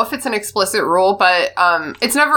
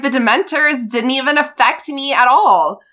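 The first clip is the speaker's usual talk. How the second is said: excited; 5 semitones higher than usual. Retold or imitated. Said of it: "Harry's all excited".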